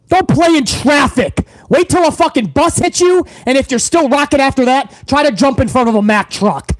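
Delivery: angry tirade. Real, not acted. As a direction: tell the fans off with real heat. Berating AEW diehard fans.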